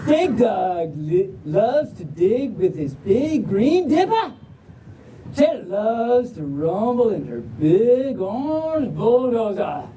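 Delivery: slow, stretched Southern storytelling; Southern drawl. Acted. Reader introducing pups learning to drive, slow Southern drawl. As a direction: draw out the vowels like a Southerner. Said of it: "but in a Southern drawl".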